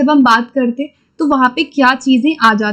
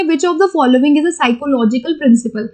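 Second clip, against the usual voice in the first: slow question reading; much slower than usual. Shown as a demonstration. Reads exam question aloud slowly.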